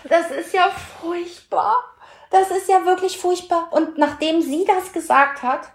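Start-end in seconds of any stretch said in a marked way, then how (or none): 0.1-3.7 high, slow, laughing protest. Real, not acted. Rejecting the friends' label, high and laughing. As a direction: protest while giggling. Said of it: "protesting the label".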